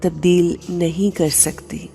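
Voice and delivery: measured supplication with long pauses; calm dua in a meditation voice; heartfelt prayer. Real, not acted. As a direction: pray aloud unhurriedly, phrase by phrase, letting each plea settle. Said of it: "एक बहुत ही खूबसूरत दुआ से करते हैं".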